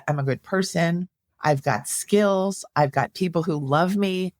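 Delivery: lightly acted positive self-talk, pitch a little lifted; gently voiced pep talk to oneself; self-affirming inner voice. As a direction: model encouraging self-talk, lightly performed. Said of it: "That's how you wanna be talking to yourself".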